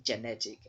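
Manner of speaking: genetic said with JEN first; unreduced GE in genetic; full E in genetic. Shown as a demonstration. Teacher repeats the error, full first vowel in genetic. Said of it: "it's a wrong way to pronounce the word".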